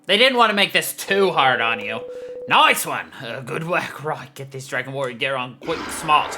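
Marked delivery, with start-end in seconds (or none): 2.5-6.4 a hint of a matey Australian mentor; Australian dragon mentor. Dragon sending the player to gear up, lightly put-on Australian voice.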